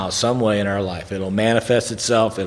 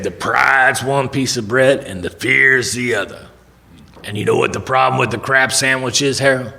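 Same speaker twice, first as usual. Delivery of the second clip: Lewis Trotter; 3 semitones higher than usual. Retold or imitated. Lewis explaining the sandwich to Harold, measured mentor's voice. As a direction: spell it out in the mentor's voice. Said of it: "It's what he sounded like".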